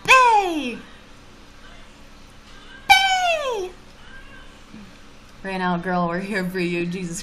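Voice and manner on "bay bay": loud, high call to someone away. Real, not acted. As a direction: shout the name up high across the house. Calling out across the room.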